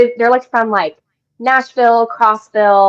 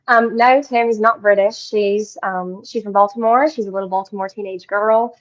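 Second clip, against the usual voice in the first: put-on Southern accent. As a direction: answer in an easy Southern accent. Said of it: "In a Southern accent, you want me to answer?".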